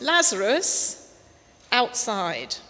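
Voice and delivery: calling Lazarus out, loud and drawn out; loud cry. Retold or imitated. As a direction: call him out of the tomb with full voice. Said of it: "he cried out with a loud voice".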